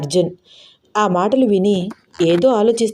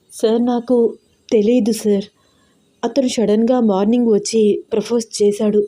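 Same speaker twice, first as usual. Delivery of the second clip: afraid; 3 semitones higher than usual. Acted. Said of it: "భయపడుతూ అంది".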